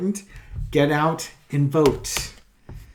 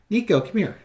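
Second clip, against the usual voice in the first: raised calling voice, Nico pitched up; calling the cat; 6 semitones higher than usual. Real, not acted. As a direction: call the cat across the room.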